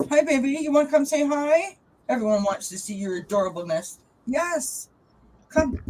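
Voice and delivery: high, sweet pet voice; cooing to her cat Austin to come say hi. Real, not acted.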